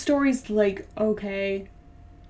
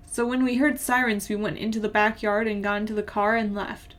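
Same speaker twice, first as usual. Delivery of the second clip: even, measured story reading; plain-spoken first-person narration. A narrator's reading. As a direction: read the story aloud evenly. Reads a story aloud.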